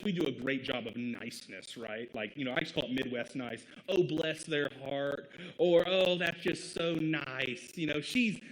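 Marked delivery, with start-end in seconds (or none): 3.9-5.3 drawn-out, mock-sweet Southern niceness; lightly put-on slow Southern accent. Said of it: "giving this a Southern accent". 5.9-7.8 drawn-out, mock-sweet Southern niceness; lightly put-on slow Southern accent. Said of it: "giving this a Southern accent". 8.0-8.4 higher, louder mock Southern niceness; Southern accent. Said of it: "giving this a Southern accent".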